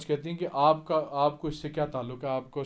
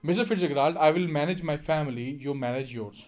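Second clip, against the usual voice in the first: sharply; slower than usual. Acted. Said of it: "कहती हैं sharply".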